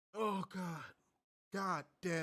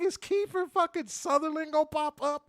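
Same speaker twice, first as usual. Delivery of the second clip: high, loud, laughing disbelief; incredulous outburst; 12 semitones higher, 6 dB louder than usual. Retold or imitated. Host retelling his reaction to the rerun, loud laughing disbelief. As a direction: shout it like you can't believe it. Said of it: "I'm like".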